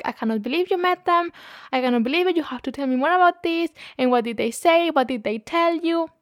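high, gushing disbelief, rushing through questions; excited kid. Retold or imitated. Kid gushing at the assistant about the band, high and excited. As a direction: gush like a kid who can't believe it. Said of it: "so excited".

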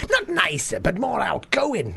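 high Scouse correction; Scouse accent. Shown as a demonstration. Comic correcting himself mid-story, high Scouse accent.

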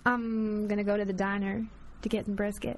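slow Southern US accent; unhurried southern belle accent; Texas belle accent. Shown as a demonstration. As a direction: take your time, like a Texas belle. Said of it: "In your Texas Belle accent".

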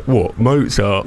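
slow mock-Cockney echo; teasing Cockney imitation; imitated Cockney. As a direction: lightly mimic a Cockney. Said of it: "a little bit more Cockney there".

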